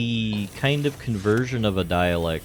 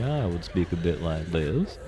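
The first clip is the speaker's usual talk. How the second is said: genteel Southern US accent; southern affectation. Shown as a demonstration. Streamer showing how dialects differ, affected Southern accent. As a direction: put on a Southern gentleman's accent. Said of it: "speak with a southern affectation in my voice".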